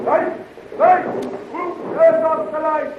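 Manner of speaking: alarmed shouts. Acted. Sudden darkness.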